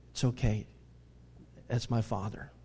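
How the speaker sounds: low, soft, unhurried comfort; calm them down quietly; gentle reassurance. Acted. Jesus comforting disciples who fear the Father, gentle reassurance.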